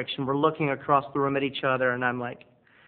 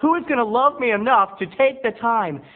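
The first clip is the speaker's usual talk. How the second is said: lonely whine; 6 semitones higher, 3 dB louder than usual. Acted. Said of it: "Snack Boy feels very alone".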